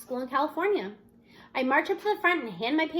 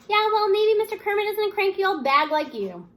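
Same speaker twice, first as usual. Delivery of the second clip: 1 tossed-off jab; 5 semitones higher, 5 dB louder than usual. Acted. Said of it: "Aldo tosses her when she's too far to hear it".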